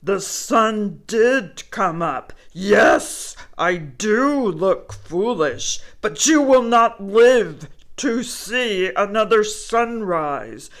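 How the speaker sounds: loud, menacing bear growl. Acted. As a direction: threaten the squirrel like a hungry bear. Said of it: "Bear growled".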